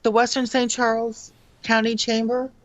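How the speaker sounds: muffled, talking into a hand; hand over mouth. Real, not acted. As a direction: speak muffled through your palm. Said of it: "you're talking into your Nord again".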